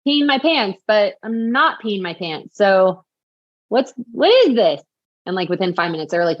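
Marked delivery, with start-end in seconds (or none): 0.1-4.8 higher, puzzled voice, unsure what is happening; a worried, baffled question; confused alarm. Retold or imitated. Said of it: "I'm like".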